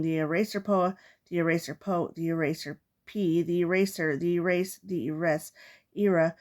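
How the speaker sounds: words vanishing bit by bit; fading as if erased; erasing word by word. Acted. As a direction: let the title shrink away piece by piece. Title words erased away progressively.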